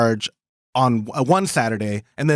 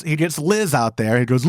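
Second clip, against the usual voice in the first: usual speaking voice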